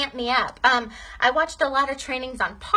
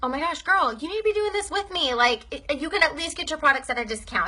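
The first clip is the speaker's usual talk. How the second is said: put-on much higher, eager "Girl, you need to be doing this"; enthusiastic pitch; 4 semitones higher than usual. Shown as a demonstration. Pitching a happy customer to join, a much higher eager pitch. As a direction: sell it like an excited girlfriend. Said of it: "ask them".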